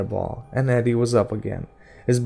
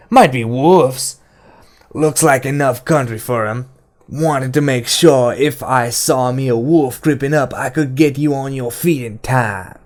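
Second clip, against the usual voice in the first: mock-innocent taunt; 3 semitones higher, 5 dB louder than usual. A narrator's reading. Detta explains her screaming to the men, mockingly. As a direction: needle them with mean amusement.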